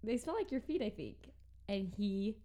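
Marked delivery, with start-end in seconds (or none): 0.0-1.2 playful tease. Retold or imitated. Teasing him about smelly hands.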